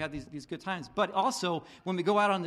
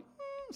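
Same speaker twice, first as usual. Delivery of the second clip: dog whine; 11 dB quieter than usual. Retold or imitated. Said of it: "still whining on the ground".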